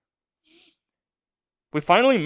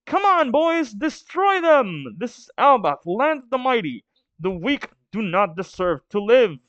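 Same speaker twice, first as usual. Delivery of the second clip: warrior's battle cry; 7 semitones higher than usual. Acted. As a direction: roar them on into battle, higher than usual. Warlord rallying his men.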